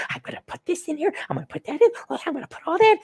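high, fast mocking millennial voice; mock a twenty-something gal; millennial impersonation. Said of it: "limp-wristed millennial impersonation".

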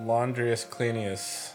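mock spell. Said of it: "Bobby L".

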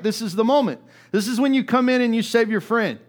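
high, loud, urgent push; fervent preacher's cry; impassioned preaching. Acted. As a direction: drive the point home to the crowd. Preacher builds to the climax.

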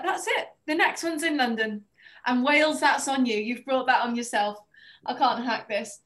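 throwing her hands up at the rain, half joking; fed-up outburst. Retold or imitated. Writer on a rainy set giving up on Wales, mock-exasperated. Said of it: "I was like".

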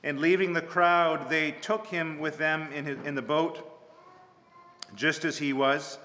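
measured, solemn Bible reading; scripture reading. Acted. Pastor reading the gospel to the congregation, solemn reading. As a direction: read the gospel with care.

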